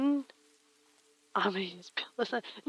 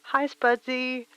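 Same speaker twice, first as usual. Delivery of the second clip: retro phone caller; 4 semitones higher, 6 dB louder than usual. Pretend. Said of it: "I'm a retro person on the telephone".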